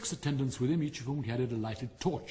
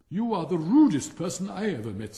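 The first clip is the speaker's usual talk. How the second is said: high, much louder offended outburst; furious rocket answering an insult; indignant retort; 5 semitones higher, 10 dB louder than usual. Acted. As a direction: snap back in wounded pride.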